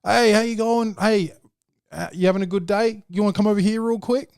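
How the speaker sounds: high, bright mock sales pitch calling to shoppers; imitating an eager mall spruiker; pushy mall seller. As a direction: flag down passers-by like a kiosk hustler. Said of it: "one of these motherfuckers annoying you".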